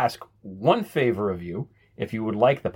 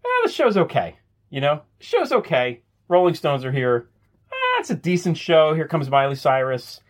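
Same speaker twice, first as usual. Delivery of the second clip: higher, louder mock shrug of a host; unimpressed host; 5 semitones higher, 3 dB louder than usual. Imagined SNL host downplaying his own show, mock unimpressed. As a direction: act like the show's just fine, unimpressed. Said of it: "They never say, like".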